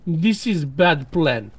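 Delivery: slow, blunt soldier's verdict; blunt disapproval. Acted. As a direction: state it slowly, no softening. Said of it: "without any attempt of obfuscating his feelings".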